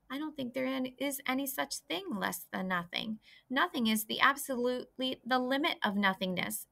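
a little pig puzzling it out aloud; earnest young pig. Acted. Wilbur argues about nothingness.

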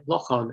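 Lochan with a long second vowel; full-form pronunciation. Shown as a demonstration. Lecturer adding another recorded form, careful pronunciation. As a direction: Lochan said "lock-awn". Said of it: "most common pronunciation".

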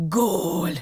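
restrained storybook shout of triumph; yelled goal cry. A narrator's reading. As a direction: cry out one drawn-out goal. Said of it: "üvöltötte Anton".

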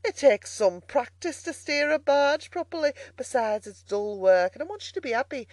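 teasing barge woman, pitch lifting and falling; gently mock him as a barge woman; lightly voiced amused barge woman.

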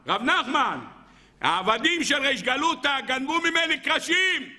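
put-on high-pitched old lady pleading her case; old grandmother complaining. Grandmother complaining to Rav Nachman about stolen planks, high pleading voice. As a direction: play the wronged grandmother, voice lifted high.

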